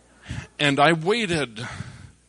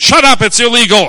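sharp hush; 8 semitones higher, 14 dB louder than usual. Retold or imitated. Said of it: "he said".

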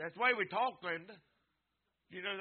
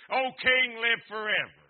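loud, raised call of homage; calling out to the king; 4 semitones higher, 8 dB louder than usual. Retold or imitated. Daniel hails the king from the den, loud ringing call. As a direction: cry it out high and loud.

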